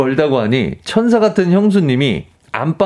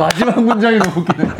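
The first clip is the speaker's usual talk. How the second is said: usual speaking voice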